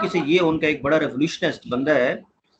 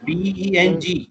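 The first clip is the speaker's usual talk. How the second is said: slow syllable prompt; 3 semitones higher, much slower than usual. Shown as a demonstration. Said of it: "इस एक को बोले".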